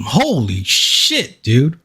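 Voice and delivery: slow, drawn-out amazement; amazed. Real, not acted. Streamer stunned by Andrew's rant, slow and drawn out. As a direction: stretch it out in disbelief.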